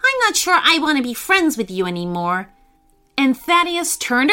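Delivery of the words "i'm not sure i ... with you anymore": mildly hurt reproach; a little angry. Acted. Thaddeus tires of being made fun of, mildly angry. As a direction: reproach a friend with understated annoyance. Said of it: "This made Thaddeus a little angry".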